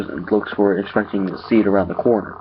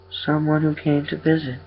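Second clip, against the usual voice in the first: high, eerie creature mimicking a child; 7 semitones higher than usual. A narrator's reading. Creature tells the father who it is, high and eerie. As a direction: pitch it up, evenly and uncannily.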